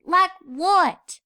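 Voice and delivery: put-on high, apologetic young filly voice; little filly Apple Bloom. A narrator's reading. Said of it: "asked Apple Bloom".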